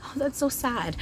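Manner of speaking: high, wry self-pitying sigh of words; joking to viewers about her lack of practice partners, high and wry; mock sadness. Real, not acted. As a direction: laugh off her own sad situation. Realizing she has few people to practise on.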